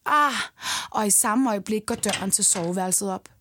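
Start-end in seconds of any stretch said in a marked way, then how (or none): 0.1-0.3 short, restrained narrated cry; understated cry in narration; long cry. A narrator's reading. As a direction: voice a mild, louder "ah". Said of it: "Jeg skriger et langt".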